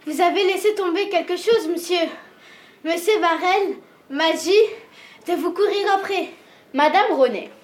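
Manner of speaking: out of breath, hurried words; urgent panting report. Acted. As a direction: gasp it out after running.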